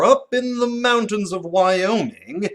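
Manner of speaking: slow, mysterious whisper; storyteller whisper. Shown as a demonstration. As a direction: lean in and whisper the setting. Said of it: "start with something like".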